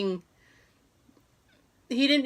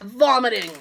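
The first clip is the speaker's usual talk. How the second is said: mock poker bet; 3 dB louder than usual. Lands the mock poker raise.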